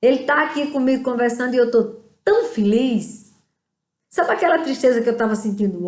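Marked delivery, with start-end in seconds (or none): 0.0-3.3 joyful testimony. Pretend.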